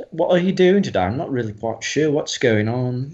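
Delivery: a lightly done British voice; everyday British English imitation; put-on British accent. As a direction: try on a casual British accent.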